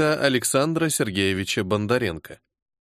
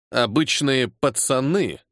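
Обычные drawn out slowly and pointedly; grim stress on Обычные; slower than usual. A narrator's reading. Major sullenly throws the colonel's words back, stressing Обычные. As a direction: lean hard on Обычные, sullen. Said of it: "хмуро выделив слово".

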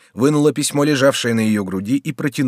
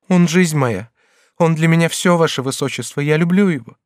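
put-on higher, fervent girl's voice; young woman confessing; 5 semitones higher, 4 dB louder than usual. Bathilde tells the regent she loves him, fervently higher. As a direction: confess it with whole heart.

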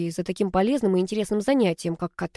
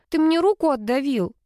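high, whiny complaint; complaining; 7 semitones higher than usual. A narrator's reading. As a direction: complain in a higher voice. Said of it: "пожаловалась Алла". (жалобно, высоко)

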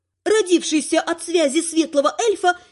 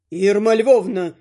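name drawn out slowly and heavily; slowed retort; 4 semitones lower, slower than usual. A narrator's reading. Father pointedly addressing mother-in-law, slow. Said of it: "вякнул батя".

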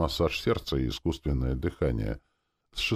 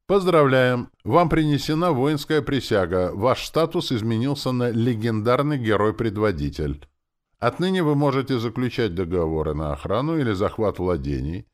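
higher, raised game-system announcement; announcer; 6 semitones higher, 5 dB louder than usual. Acted. Game system congratulating the new leader, announcing. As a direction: proclaim it like an official notice.

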